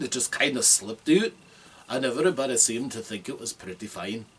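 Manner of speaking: slipping into a Scottish dwarf voice; Scottish dwarven accent. Shown as a demonstration. Player shows how the accent came easier, Scottish dwarf voice. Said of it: "my Scottish dwarven accent".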